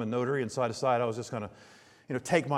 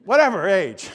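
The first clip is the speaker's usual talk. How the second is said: put-on much higher and louder, a piping child's voice; squeaky kid; 12 semitones higher, 9 dB louder, much slower than usual. Son blurting his age at the ticket booth, squeaky high. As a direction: squeak it out like an eager little son. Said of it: "I hear this squeaky noise next to me".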